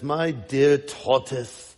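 lightly put-on British scorpion; measured mock British accent. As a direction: explain it with a hint of British accent. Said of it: "he would have a British accent".

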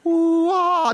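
sing-song mock swoop past someone; playful "ooh, ah". God teasing a churchgoer he is passing over, playful.

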